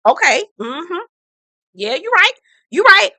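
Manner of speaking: lightly voiced Willie, rising and going along; mock Willie. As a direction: play along with a fake agreeable okay.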